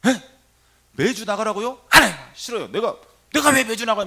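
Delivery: high, loud, indignant mimicry of a patient; irritated angry protest. Young patient balking at weekly church attendance, irritated and angry. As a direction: act out an annoyed refusal, voice jumping up. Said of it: "짜증을 내면서 화를 내는데".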